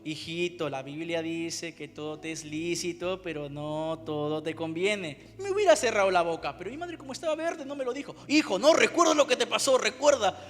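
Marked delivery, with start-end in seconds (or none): 0.0-5.3 lower, slow, gentle correction; calm motherly advice. Retold or imitated. Mother gently correcting her son with scripture, calm and slow. 8.3-10.4 loud reproach. Retold or imitated. Mother reminds him loudly.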